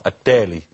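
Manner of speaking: التالي said with an initial T in place of D; T pronunciation. Shown as a demonstration. Doctor showing how some villages say الدالي, T-sound pronunciation. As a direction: say التالي, opening on a crisp t sound. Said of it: "بتنطق".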